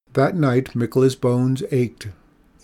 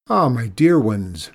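exclaimed; 5 dB louder than usual. Acted. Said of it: "Mikola exclaimed".

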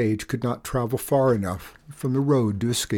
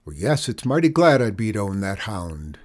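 angry; 4 dB louder than usual. Acted. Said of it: "flared up angrily".

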